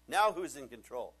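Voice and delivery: loud, demanding soldier; storming soldiers shouting; shouted question. Acted. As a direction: bark it at the room.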